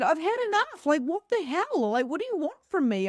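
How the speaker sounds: high-pitched, fed-up retold plea; exasperated outburst. Worn-out new mother demanding answers from spirit, exasperated. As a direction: throw up an exasperated mock protest.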